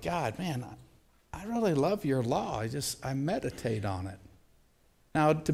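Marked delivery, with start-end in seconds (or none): 0.0-4.2 much softer, hushed earnest prayer. Pretend. Congregation telling God they love his law, softly. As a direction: murmur it to God like a confession.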